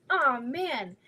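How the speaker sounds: ordinary talk, nothing marked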